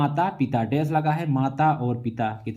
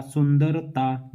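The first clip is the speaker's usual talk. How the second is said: सुंदरता said very slowly, syllable by syllable; slow, drawn-out word; much slower than usual. Shown as a demonstration. Teacher showing students the suffix, slowly drawn out. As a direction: lay out सुंदरता slowly for the class. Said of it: "ता में सुंदरता".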